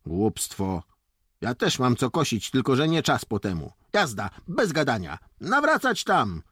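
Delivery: brisk officer's order, rising in pitch; commanding. A narrator's reading. Lieutenant overrules the boys and gives orders, commanding. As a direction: dismiss the excuse, then order them off. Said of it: "podał rozkaz".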